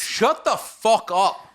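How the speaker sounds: drawn out, word by word; slow disbelief. Real, not acted. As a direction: spell out each word in disgust. Disgusted at friend's explanation.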